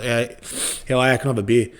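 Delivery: broad Australian ordering a beer; Australian at a New York bar, broad Aussie accent; full Aussie accent. Retold or imitated. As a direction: lay on the Aussie twang. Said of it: "if you go full Aussie, Aussie style".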